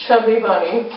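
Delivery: cheeks stuffed with marshmallows; mouth full. Real, not acted. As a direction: mumble through a full mouth. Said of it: "We have to say Chubby Bunny".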